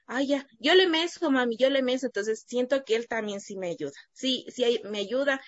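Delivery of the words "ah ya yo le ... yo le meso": son's voice. Retold or imitated. Son voiced offering.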